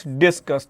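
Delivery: "डिस्कस" in two parts, dis then cus; split into syllables. Shown as a demonstration. Teacher showing students word parts, "डिस्कस" split in two. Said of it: "दो बार में बोल रहे हो ना".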